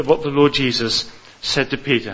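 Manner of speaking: ordinary talk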